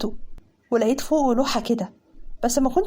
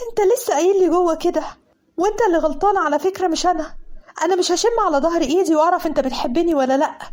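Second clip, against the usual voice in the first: angry outburst; 4 semitones higher than usual. Acted. Mazen bursting in to scold her, angry and higher. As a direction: storm in and blame her hard. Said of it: "لقيته داخل وبكل عصبية".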